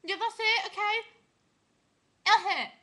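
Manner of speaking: high laughing voice; talking through laughter. Real, not acted. Laughing through tongue test.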